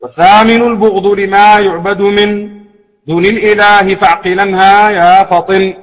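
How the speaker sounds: measured, lilting recitation of verse; poem recitation. Acted.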